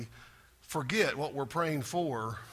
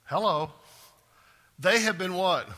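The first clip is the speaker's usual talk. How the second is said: ordinary delivery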